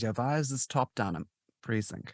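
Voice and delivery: put-on light German-accented film quote. Host quoting Schindler's List villain, light German accent. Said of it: "you could hear the way I said that".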